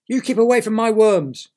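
loud high squawking warning; territorial bird. Acted. Bird warns Derek off its worms, loud squawk.

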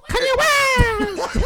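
high slow laughing call; laughing yell. Real, not acted. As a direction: crack up while calling the name. Mock cry.

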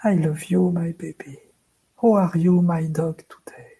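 softly talking to a pet, trailing to a whisper; quiet, tender. Acted. Talking quietly to our dog at home, tender and hushed. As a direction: coo it gently, with long pauses. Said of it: "When we talk quietly to someone".

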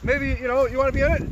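real defiant yell; defiant shout. Real, not acted. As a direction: fire it back at the heckler. Angry protester heckled back.

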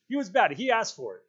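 high, loud accusation; shrill. A narrator's reading. Piggy blames Simon for crawling out, shrill. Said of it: "His voice shrilled again".

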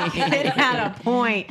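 loud, high laughing words. Real, not acted. Mom laughing with friends over her kid's joke. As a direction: talk through the laughter.

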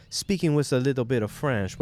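English lightly coloured with a French accent. Shown as a demonstration. Explaining to listeners how French creeps in, French accent. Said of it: "can't just say words with your own".

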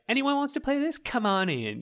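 high, inviting sing-out; light, high-pitched friendly beckoning; welcoming invitation. Retold or imitated. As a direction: welcome all comers in a high voice. Voicing the game's open invitation.

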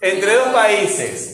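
slow, drawn-out reading of the phrase; slow dictation. Shown as a demonstration. Teacher dictating the phrase to the class, slow. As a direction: read it out slowly so the class can follow. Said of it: "Vamos a ver este grupo acá".

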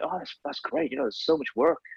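high, put-on New York accent; Paula Scher. Designer encourages an illustrator, put-on New York accent. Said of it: "That accent is amazing".

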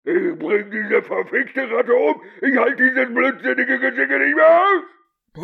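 recorded furious rant. Acted. Mayor's taped rant plays in court, slow and furious. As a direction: rage at the rat.

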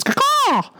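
very high squawking crow call; raven caw. Pretend. Ravens defense mentioned.

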